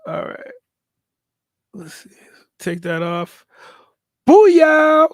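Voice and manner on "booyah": loud, high booyah of victory; triumphant shout. Real, not acted. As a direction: cheer it like you just won. Celebrates the fix working.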